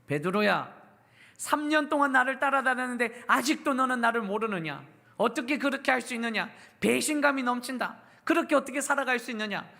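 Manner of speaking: mock-scold Peter as a betrayed master; sermon's imagined angry Jesus confronting Peter; pretend angry rebuke. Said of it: "화내셨습니까?".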